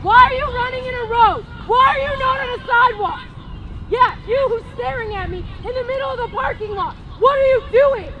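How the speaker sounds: calling across a parking lot; calling from far away. Real, not acted. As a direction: yell out to someone far off. Yelling to recruit across lot.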